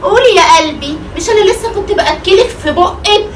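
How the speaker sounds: sweet but spiteful. Acted. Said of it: "بتكلمها بغيظ كده ليه".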